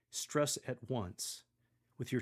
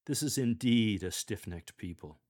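grave and louder, stressing "is"; sober tone; 6 dB louder than usual. Shown as a demonstration. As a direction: read it soberly, like a sigh at your people. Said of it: "Use a sober tone and demeanor".

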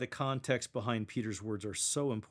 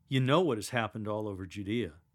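questioning tone; 3 semitones lower, 4 dB louder than usual. Shown as a demonstration. Lector asking the pews, almost a question. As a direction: say "You know what has happened all over Judea" almost as a question. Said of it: "Use that tone of voice when you say".

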